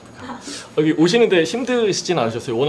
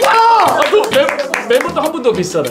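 flustered excited; 8 semitones higher, 5 dB louder than usual. Acted.

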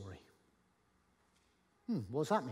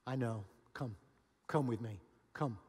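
gently lowered, unhurried invitation; gracious. Acted. Jesus inviting failed disciples onward, gracious and gentle. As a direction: coax them onward with short, patient phrases. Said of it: "he's still with grace".

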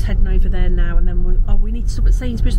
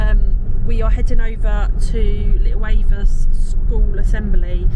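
talking over road bumps; on a bumpy road. Real, not acted. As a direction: voice jolted by a bumpy ride. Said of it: "sorry, it's really bumpy road".

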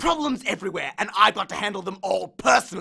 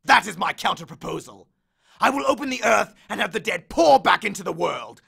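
menacing threat; 2 semitones higher, 6 dB louder than usual. Acted. Hades threatens Percy's world, loud menace. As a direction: promise doom.

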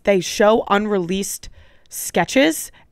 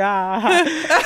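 higher, drawn-out wordless "ah"; tongue-tied noise; 5 semitones higher than usual. Retold or imitated. Storyteller mimicking failed attempt at conversation, tongue-tied noise. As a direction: try to talk, only noise comes. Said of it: "trying to just, like, talk".

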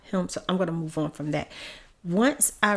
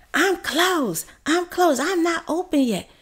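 high, clipped-off mocking refusal; mock dentist insisting he's closed; mock curt dentist; 12 semitones higher, 6 dB louder than usual. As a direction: imitate him shutting them out.

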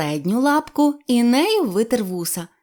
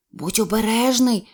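plain reading voice

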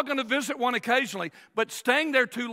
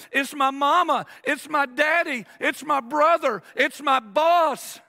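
mock blaming; 3 semitones higher, 4 dB louder, slower than usual. Mocking blame-shifting complainers.

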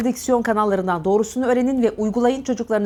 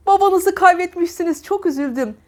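cheerful, wrong tone; 8 semitones higher than usual. Shown as a demonstration. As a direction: say it like "hooray, I did it". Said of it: "yaşasın, başardım ifadesidir". (başsağlığını sevinçle söyle)

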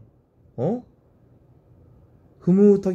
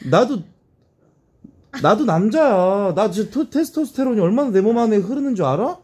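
flustered protest; 5 semitones higher than usual. Real, not acted. (당황해서 높게 항의하듯)

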